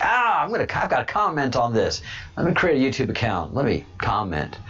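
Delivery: imitating an eager commenter who jumps high on "Ah"; hammed-up burst of eagerness that settles; a viewer who suddenly has to comment, mock excited.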